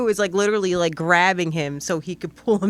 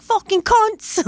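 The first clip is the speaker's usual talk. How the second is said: high, drawn-out mock drunken shout; drunken yelling; 14 semitones higher, 5 dB louder, slower than usual. Imitating drunk Australian neighbors at the old place, drunken yelling. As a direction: yell it like a rowdy drunk neighbor. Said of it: "they were always drunk and yelling".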